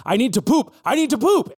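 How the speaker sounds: urgent plea climbing high; high, comic desperation; desperate dog. Acted.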